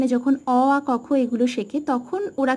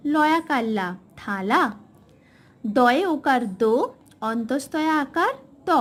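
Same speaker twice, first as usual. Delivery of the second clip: spelling drill. Shown as a demonstration. Teacher spelling words aloud for a small child. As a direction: break each word into beats for a child. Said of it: "আরও কিছু উদাহরণ আমি আপনাদেরকে দেখিয়ে দিই".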